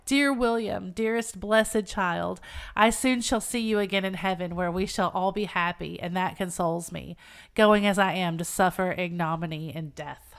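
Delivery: measured dramatic reading of a farewell; slowing on the tender address; story narration. Acted. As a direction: read it aloud as a heartfelt speech from a novel.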